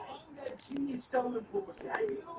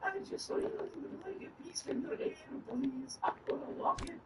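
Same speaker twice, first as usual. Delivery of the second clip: put-on high, pleading child voice; little kid dwarf; 9 semitones higher than usual. Little kid dwarf asking for a piece of hair, high and pleading. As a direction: beg sweetly in a small, high voice. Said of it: "like a little kid dwarf".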